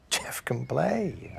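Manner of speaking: slow, firm insistence; said firmly. Acted. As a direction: assert it slowly and firmly. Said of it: "I said firmly".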